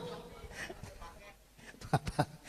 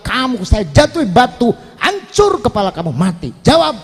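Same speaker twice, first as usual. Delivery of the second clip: threatening Pharaoh. Acted.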